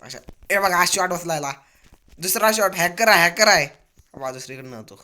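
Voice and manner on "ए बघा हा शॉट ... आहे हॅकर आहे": excited shout. Real, not acted.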